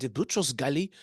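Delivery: terrible attempt at a French accent; lightly imitated French accent, badly done. Quoting his UN boss, in a poor French accent. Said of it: "in his French accent".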